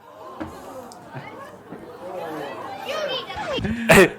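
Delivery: high, helpless laughing fit; real cracking up; long laugh. Real, not acted. Cracking up at the joke.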